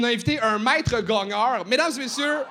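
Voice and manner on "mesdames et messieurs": arena announcer. Acted. Introducing the master gonger on stage.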